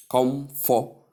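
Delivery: COMFORTABLE broken into KOM, FOR, TAY, bol; separate, equally stressed syllables in "comfortable"; wrong even stress. Shown as a demonstration. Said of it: "not pronounced that way".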